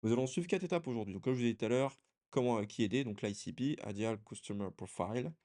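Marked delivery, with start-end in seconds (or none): 3.9-5.3 English term in a French accent. Real, not acted. Presenter naming a marketing term to viewers, French-accented English. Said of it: "avec mon bel accent anglais".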